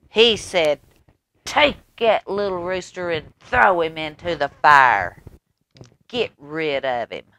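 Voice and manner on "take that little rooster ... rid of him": loud, bossy king giving orders; storybook king in a temper; angry king. Acted. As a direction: bark it out like a cross king.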